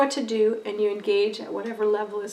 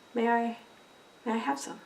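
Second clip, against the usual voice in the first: flat affect; 7 dB quieter than usual. Retold or imitated. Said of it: "put a flat sort of affect on".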